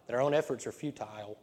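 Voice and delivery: futile in a dramatic villain voice. Acted. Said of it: "Got my villain voice there".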